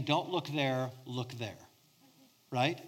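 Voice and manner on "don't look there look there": put-on soft, low parent steering a child's face; gentle parent redirect. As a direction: quietly turn the child's gaze. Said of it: "and saying".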